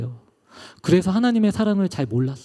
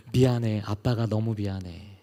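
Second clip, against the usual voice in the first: tender apology; 7 semitones lower, 5 dB quieter than usual. Retold or imitated. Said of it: "너무 부끄러워서 아들에게 나아갔어요".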